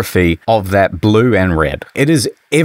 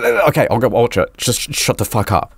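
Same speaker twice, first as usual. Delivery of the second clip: hurried retold plea; faster than usual. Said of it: "and I would go".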